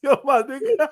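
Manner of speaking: hammed-up imitation of a white guy; mock white guy slang. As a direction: lampoon white friends greeting each other. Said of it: "They call it".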